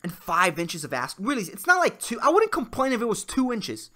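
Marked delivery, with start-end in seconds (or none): 1.2-3.9 high pleading. Pretend. Mock pleading, rising pitch.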